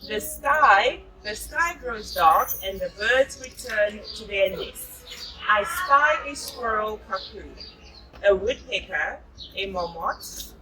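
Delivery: put-on reading a picture book aloud to a child; storybook narration, gently paced; story reading. A narrator's reading. Mother reading a jungle story to her child.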